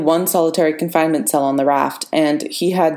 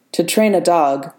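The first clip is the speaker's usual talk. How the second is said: even. Acted. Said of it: "Ross said evenly".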